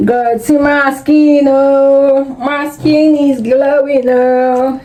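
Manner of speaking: gushing wonder; delighted gasp. Real, not acted. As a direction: marvel at it, drawn out. Admiring own glowing skin.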